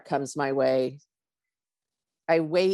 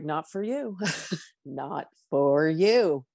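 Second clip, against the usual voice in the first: calm inner voice; slower than usual. Retold or imitated. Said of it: "this voice is like".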